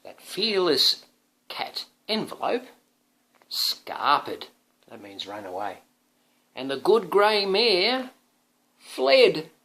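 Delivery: slow creeping then loud fleeing; dramatic storybook. Acted. Father reading the climax to son, dramatic storybook voice. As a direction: build to the beasties' arrival.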